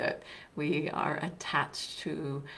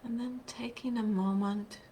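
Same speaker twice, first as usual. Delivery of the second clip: guided meditation; 4 dB quieter than usual. Real, not acted. Teacher leading online listeners into a seated practice, guided meditation. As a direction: guide them gently, leaving long silences between phrases.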